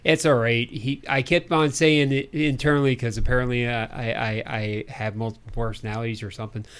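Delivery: put-on Midwestern announcer; Midwestern accent. Co-host announces projects in a put-on Midwestern accent. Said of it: "a decent Midwestern accent".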